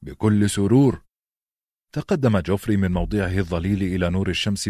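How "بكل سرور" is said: eager. A narrator's reading. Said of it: "تقدم قائلا بحماسة".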